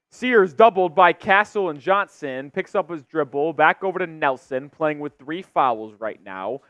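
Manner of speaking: steady live basketball call; play-by-play. Real, not acted. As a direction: track each pass as it happens.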